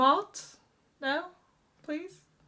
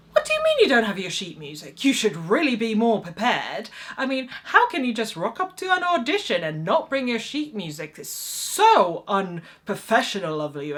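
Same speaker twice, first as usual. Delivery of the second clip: fast, louder scolding of a late actor; imitating a lecture; 3 semitones higher, 5 dB louder than usual. Accompanist lecturing an unprepared auditionee, fast scolding. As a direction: tell them off like a strict accompanist. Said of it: "an actual lecture".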